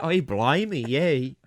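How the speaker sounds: attempted New Zealand accent. Shown as a demonstration. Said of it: "does that sound like a Zealand".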